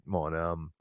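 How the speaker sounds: ordinary talk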